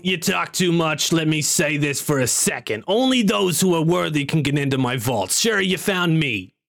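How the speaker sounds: insistent comic wizard in a stone; imperfect comedian impression, laying down rules; Gilbert Gottfried. Wizard telling Barlow the vault's terms, imitating Gottfried. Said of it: "sounds like Gilbert Godfrey".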